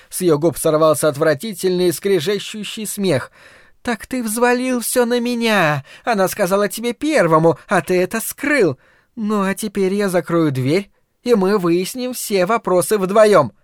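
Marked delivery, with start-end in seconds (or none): 3.8-13.5 bitter sarcasm. A narrator's reading. Mother bitter, sarcastic to husband.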